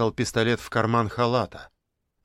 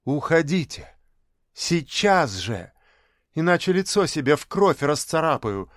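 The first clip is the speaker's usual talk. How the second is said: higher, rising defiant threat; spiteful threat; 3 semitones higher than usual. Acted. Girl threatens her parents with police, spiteful. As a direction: threaten them coldly, building.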